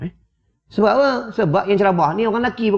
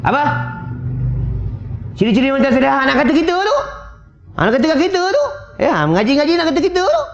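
mock indignant wife, pitched high; hammed-up fast, rising retort of a quarrelsome wife; argumentative wife; 9 semitones higher, faster than usual. Arguing wife snapping back at her husband's question, high mock indignation. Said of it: "kalau isteri yang suka cekah".

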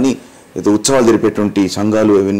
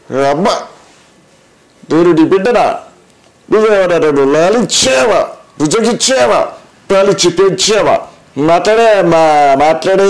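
higher, pleading film-hero son asking his mother; Akkineni Nageswara Rao; 7 semitones higher than usual. Retold or imitated. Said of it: "Akkineni నాగేశ్వరరావు గారు". (అక్కినేని శైలిలో తల్లిని వేడుకునే గొంతు)

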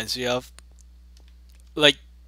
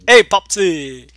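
cartoon voice; 6 semitones higher, 9 dB louder, slower than usual. Quoted catchphrase voice.

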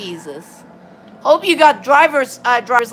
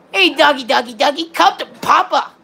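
playful dog call; 2 semitones higher than usual. Pretend. Gamer luring a dog in the game, playful dog call. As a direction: call a doggy over playfully.

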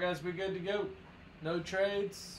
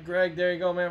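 loud shout-out; 6 dB louder than usual. Real, not acted. Calling out a winner.

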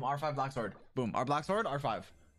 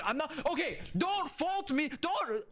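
higher, voice breaking as it climbs; voice cracking; 8 semitones higher than usual. Real, not acted. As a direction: voice cracks while pleading. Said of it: "that was not a voice crack".

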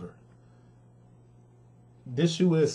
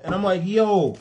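frustrated, higher and louder venting; mad; 7 semitones higher, 4 dB louder than usual. Real, not acted. Sneaker reviewer venting about a letdown shoe, mad. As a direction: let the exasperation rise loud and high. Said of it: "I'm mad".

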